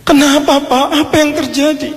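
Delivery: high, urgent cry of shock; alarmed father. Acted. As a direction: demand news in acted alarm. Shocked father hears wedding is cancelled.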